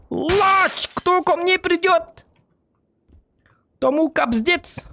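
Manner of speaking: high, slow threatening call; battle taunt. Acted. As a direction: taunt the enemies boldly.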